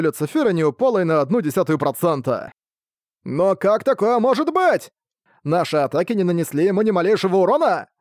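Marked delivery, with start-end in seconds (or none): 3.2-7.9 desperate cry. Acted. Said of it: "Раздались отчаянные возгласы солдат".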